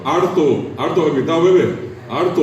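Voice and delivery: "harto" called out with an R for the L; R in place of L. Retold or imitated. Imitating someone trying to say alto, R-for-L pronunciation. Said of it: "diga, tú eres la alto".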